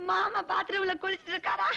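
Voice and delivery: laughter bubbling through the words; amused, barely holding the laugh; giggling. Acted. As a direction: tell it while giggling. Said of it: "ஒண்ணு சொல்லிட்டு சிரி".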